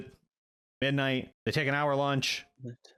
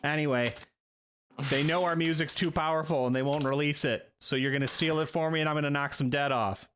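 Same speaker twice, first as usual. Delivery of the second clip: a hint of an aggrieved musician; lightly played self-important band man; lightly voiced Rusty, aggrieved; 2 semitones higher than usual. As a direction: grumble about the label in character. Game master voices Rusty.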